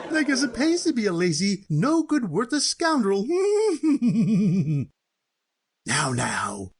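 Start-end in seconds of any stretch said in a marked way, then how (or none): 0.1-3.2 laughing taunt. Acted. Cousin taunts the disinherited one. 3.3-4.8 gloating cackle. Acted. Cousin gloats over winning.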